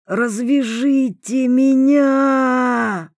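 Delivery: slow, high, wheezing plea; hoarse plea. A narrator's reading. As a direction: rasp it out, pleading. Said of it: "просипел Котовский".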